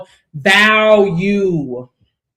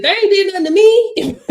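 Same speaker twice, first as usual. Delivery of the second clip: mock whiny excuse; 10 semitones higher, 4 dB louder than usual. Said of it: "quoting the victim's excuse".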